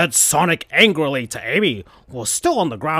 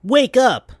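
calling out; 10 semitones higher, 4 dB louder than usual. Acted. Sonic wakes Amy.

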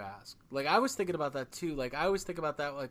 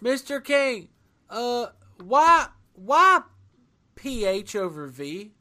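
high, loud eager fan asking a question; convention fan; 7 semitones higher, 12 dB louder, much slower than usual. Pretend. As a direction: squeak it out like a starstruck fan. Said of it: "I would go standard, like, convention, terrible question".

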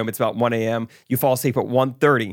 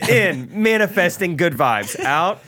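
mock chipper lecture; 4 semitones higher than usual. Mock agent lecturing on yawns.

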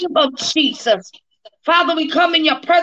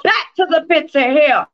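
laying a curse. Real, not acted. Casting out the enemy.

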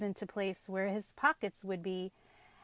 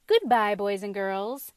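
loud, carefree farewell call; airy call; 8 dB louder than usual. A narrator's reading. Runaway pumpkin to the children, airy call. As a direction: call it out airily. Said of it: "he called airily".

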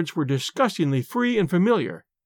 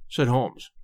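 usual speaking voice

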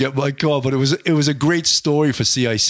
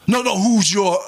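raised, cutting-in mock objection; imitated impatient chief; 6 semitones higher, 3 dB louder than usual. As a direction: brush the answer off at higher pitch. Chief rejects his first answer.

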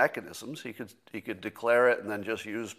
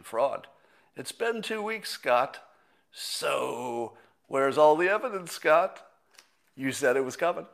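mocking, taunting, pitched up on the jabs; sarcastic Democrat troll. Twitter troll taunting Scott over missing evidence, sarcastic mock voice. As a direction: needle him like a smug online troll. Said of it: "my impression of every Democrat troll".

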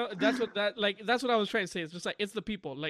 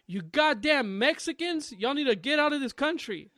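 high, drawn-out mock outrage; indignant rant; 5 semitones higher than usual. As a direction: imitate an irate bigot scolding. Retold racist woman's tirade.

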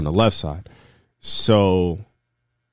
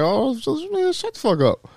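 mock shouting match. Driver telling mom to shut up, high mock-angry retort. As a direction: imitate an irritated comeback, pitched way up. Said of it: "they get into this shouting match".

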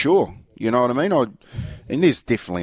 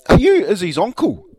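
high, louder eager question; curious fan question; 9 semitones higher, 7 dB louder than usual. Retold or imitated. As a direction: ask it like an excited fan. Stranger asks if he's uncle.

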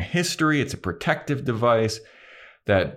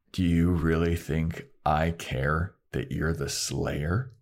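menacing; 3 semitones lower, 4 dB quieter, slower than usual. Retold or imitated. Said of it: "looking menacing again".

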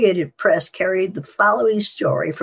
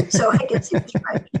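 laughing it out under the breath; 4 semitones higher, faster than usual. Real, not acted. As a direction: chuckle through the line. Laughs after tuxedo remark.

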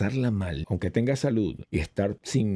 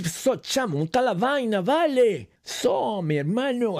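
much higher, loud, swaggering Venezuelan street talk; half street-tough Venezuelan; 13 semitones higher, 3 dB louder than usual. Retold or imitated. Imitating his friend Cartaya's street-tough way of talking, much higher. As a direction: greet like a cocky guy from the barrio. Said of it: "así medio malandro, así habla".

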